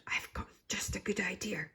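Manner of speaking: soft unvoiced whisper. A narrator's reading. Granny sharing a secret with Daisy, whispering. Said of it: "Then she whispered".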